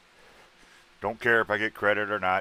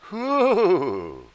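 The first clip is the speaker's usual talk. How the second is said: high, loud joyful whoop; whoo; 13 semitones higher, 9 dB louder than usual. Retold or imitated. Host showing viewers how pressing like feels, loud high whoop. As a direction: let out a delighted whoo, way up high. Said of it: "and it makes you go".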